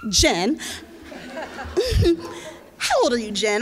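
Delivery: asking through laughter; laughing. Real, not acted. The organizer teasing the social worker while laughing. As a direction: giggle through the teasing question. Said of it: "just for laughs".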